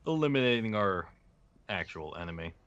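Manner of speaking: lightly voiced cold villain. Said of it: "He's talking like a villain now".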